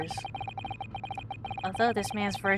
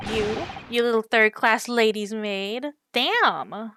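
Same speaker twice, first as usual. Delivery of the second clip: put-on louder Russian-accented sailor, scornful; 6 dB louder, slower than usual. Sailor Biff sneering at the maid, loud Russian accent.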